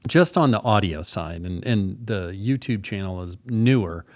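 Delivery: talking while chewing gum; words round a wad of gum; mouth full. Real, not acted. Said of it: "I've got gum in my mouth".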